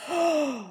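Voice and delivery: sharp high gasp of fear; frightened gasp. Acted. Peasant gasping in fear at the bear's threat.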